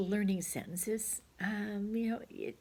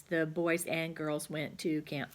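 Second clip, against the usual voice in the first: slow, deliberate dictation; slow model sentence; slower than usual. Shown as a demonstration. Teacher modelling the joined sentence slowly. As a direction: spell it out slowly for the children. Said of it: "you're gonna write the sentence".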